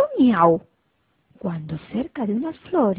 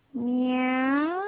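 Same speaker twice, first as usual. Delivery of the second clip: maullido; 3 semitones higher, 4 dB quieter than usual. Acted. El misterioso maullido.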